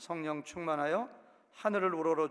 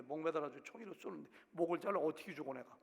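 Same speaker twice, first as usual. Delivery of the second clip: ordinary talk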